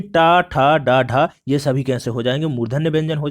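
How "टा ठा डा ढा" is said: टा ठा डा ढा with tongue curled back; retroflex consonants recited. Shown as a demonstration. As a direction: sound out टा, ठा, डा, ढा one by one. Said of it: "मूर्धन्य की बात करते हैं". (मूर्धन्य व्यंजन बोलकर दिखाना)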